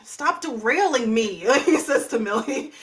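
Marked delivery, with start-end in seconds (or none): 0.0-1.4 irritated. Acted. Ezra snaps at Millie mid-explanation.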